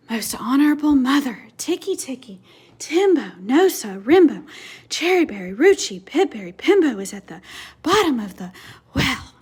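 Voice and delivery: very slowly. Acted. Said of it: "very slowly said".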